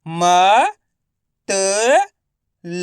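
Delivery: म, त, ल each said alone; letter-by-letter sounding. Shown as a demonstration. Teacher for pupils to repeat, म, त, ल one by one. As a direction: sound out म, त and ल with pauses. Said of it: "आपको मेरे साथ साथ रिपीट करना है".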